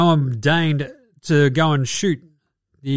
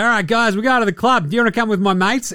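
imitating Ja; 5 semitones higher, faster than usual. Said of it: "he's like".

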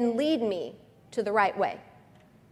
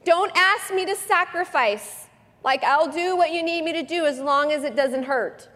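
mock whiny plea; 7 semitones higher, 4 dB louder than usual. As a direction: drag out the plea like a sulking child. Mock pleading prayer.

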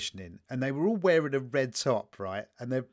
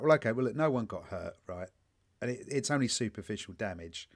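reasonable inner voice; 3 semitones lower, 4 dB quieter than usual. Retold or imitated. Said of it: "part of me is like".

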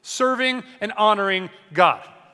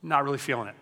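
lower, softer mock-wife voice "Not really feeling it"; mock bored wife; 4 semitones lower, 4 dB quieter, faster than usual. Wife voiced in marital dinner skit.

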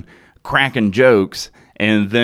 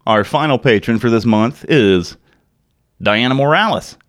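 sultry voice; 4 dB louder than usual. Shown as a demonstration. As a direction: purr the name like a late-night host. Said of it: "in my, quote, regular sultry voice".

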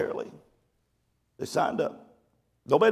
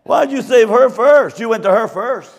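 indignant complaint; 6 semitones higher, 7 dB louder than usual. Retold or imitated. Woman rescued second, scolding her pastor, louder. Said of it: "You know what she said?".

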